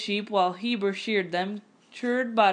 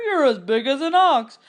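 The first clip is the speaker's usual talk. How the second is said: laughing taunt; 5 semitones higher, 5 dB louder than usual. Acted. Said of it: "he roared with laughter".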